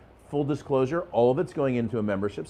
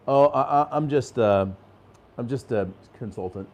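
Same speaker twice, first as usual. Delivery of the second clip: deflated mumble. Retold or imitated. A coach imitates a client sheepishly naming his job, mildly deflated. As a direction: let it sag like your shoulders dropping. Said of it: "shoulders come down, their head comes down".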